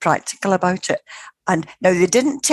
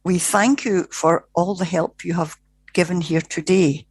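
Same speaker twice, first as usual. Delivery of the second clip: lightly voiced spiritual being, measured; golden spirit voice. Spirit thanking the minister through the medium, lightly imitated and measured. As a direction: give formal thanks, word by word. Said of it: "it was a man's voice".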